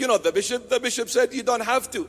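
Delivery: put-on excited young man. Young man tells his mom he's off with mates, cocky. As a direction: brag like a teen let off the hook. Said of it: "he was excited to go and tell mom".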